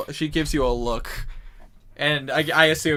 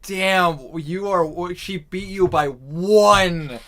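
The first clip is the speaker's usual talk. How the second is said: loud, high, stretched-out exclamation; real gleeful outcry; 6 semitones higher, 10 dB louder, much slower than usual. Real, not acted. Player reacting to a roll won by one, loudly gleeful. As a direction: crow over the narrow win, drawing words out.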